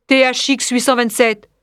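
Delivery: lightly metallic, even number reading; robotic. Acted. Headmaster addresses the android teacher, robotic. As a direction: address an android on a level note.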